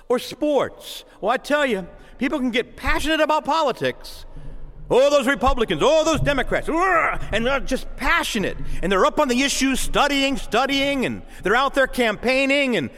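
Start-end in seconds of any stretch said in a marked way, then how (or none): 4.9-7.2 mock partisan fervor.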